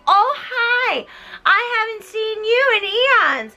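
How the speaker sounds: high mock society greeting; hammed-up fake-friendly hello; posh party guest. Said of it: "everyone's just like".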